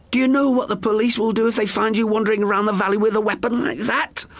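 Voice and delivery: put-on high elderly woman's voice, alarmed; high, startled sister's voice; Frances, frightened. A narrator's reading. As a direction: gasp it out as the frightened old sister.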